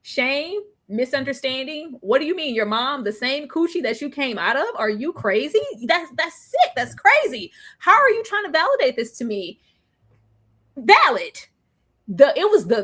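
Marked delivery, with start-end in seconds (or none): 0.0-9.6 mock disgust. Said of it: "The instant disgust from Louis".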